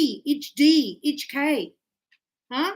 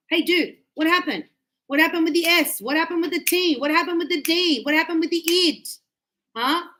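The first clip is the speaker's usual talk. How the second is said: higher-pitched, repeated challenge; mock interrogation; 5 semitones higher than usual. Teacher confronting students over lost endings, mock interrogation. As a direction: pester them playfully about each missing ending.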